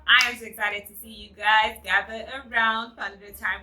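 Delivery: high, loud, bubbly channel greeting; excited welcome. Real, not acted. Vlogger hyping up her audience, loud and high. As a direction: greet the viewers with big energy. Vlog intro greeting viewers.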